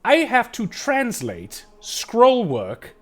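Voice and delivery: high, loud, fussy little gnome; a busy gnome who has no time to spare; harried gnome voice. Acted. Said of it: "he kinda squints at you and he goes".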